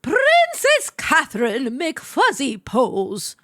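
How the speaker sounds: slow, grand royal whisper; regal voice. Acted. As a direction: announce her like royalty, hushed and slow. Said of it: "Get your regal voice out".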